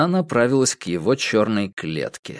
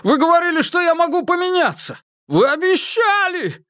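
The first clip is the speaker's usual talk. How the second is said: much higher, climbing into a shrieking squeal; voice breaking into a squeal. A narrator's reading. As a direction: let the voice crack into a squeal as panic wins. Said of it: "Голос его сорвался на визг".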